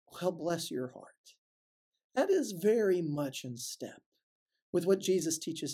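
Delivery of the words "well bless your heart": slow smiling Well, bless your heart. Retold or imitated. Responding kindly instead of cursing, smiling. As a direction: say it through a smile. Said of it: "just smiling and saying".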